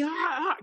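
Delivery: mock cry with an aching jaw; strained pained cry. Comic retelling of his jaw giving out, pained cry. Acting out jaw pain mid act.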